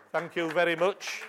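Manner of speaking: a playful overdone thank you; hammed-up thanks. Shown as a demonstration. Exaggerated thanks, then plain repeat.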